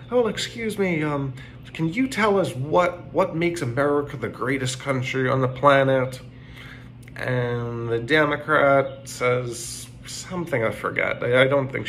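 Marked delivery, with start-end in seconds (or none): 0.1-6.2 high, eager student asking a question; young college girl. Retold or imitated. College girl in the audience asking the panel, high and eager. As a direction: play it like a keen young student at the mic. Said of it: "like, a young college girl, and she says".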